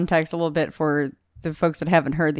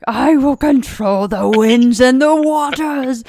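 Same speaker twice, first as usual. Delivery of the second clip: mock almighty; 6 semitones higher, 4 dB louder, slower than usual. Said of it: "you're like".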